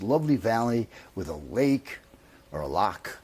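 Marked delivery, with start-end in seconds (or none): 2.7-3.2 loch with a throaty Scottish ch. Shown as a demonstration. Telling of the Scottish cottage, naming the loch the local way. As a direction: say loch the Scottish way, with a rasping ch at the end. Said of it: "as they would say there".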